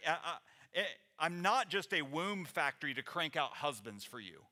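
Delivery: mock-indignant and blunt; crass sarcasm. Naomi refusing to crank out husbands, mildly indignant sarcasm. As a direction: throw it out as a snarky retort. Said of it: "that kind of crass wording".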